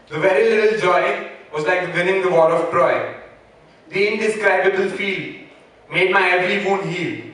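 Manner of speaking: measured, declaimed verse with pauses between lines; poem recitation. Acted. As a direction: recite your own rhymed poem to an audience. Recites own English poem.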